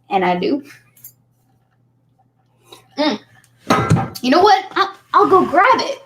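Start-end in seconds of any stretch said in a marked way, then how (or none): 4.2-6.0 excited. Real, not acted. Sudden idea, jumps up.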